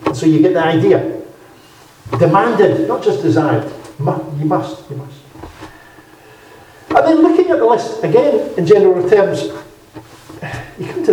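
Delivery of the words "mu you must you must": fading echo. Real, not acted. Repeated key word, fading.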